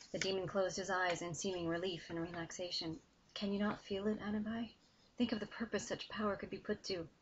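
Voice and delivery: steady, engaged reading of a dark fantasy scene; story narration. A narrator's reading. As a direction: read it like an audiobook, pulling the listener in. Author reads her novel excerpt.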